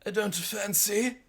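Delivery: high, slow putting-down voice; pompous high-pitched academic; mock professor. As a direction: put on a high, drawn-out professor's voice. Mimicking rival professor in retold debate.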